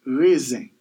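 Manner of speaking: "raisin" said the Creole way, reh-zan; Creole pronunciation. Shown as a demonstration. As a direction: end "raisin" on a nasal vowel, no n. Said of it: "In Creole".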